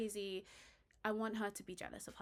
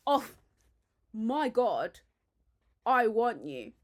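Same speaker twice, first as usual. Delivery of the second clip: louder, breathy-free hammed-up lover's plea; mock passionate lover; 9 dB louder, slower than usual. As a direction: ham up a lover's confession. Voicing the couple's passionate moment.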